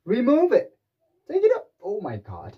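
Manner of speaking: very high, loud urging; mock alarmed shout. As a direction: cry out to clear the glass away. Acted alarm about broken glass.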